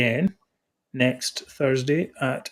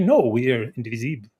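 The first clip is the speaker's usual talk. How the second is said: a hint of a put-on French accent, slightly louder; mock French accent; 6 dB louder than usual. Imitating a French person defending the republic, mild French accent. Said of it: "they might say in that terrible accent".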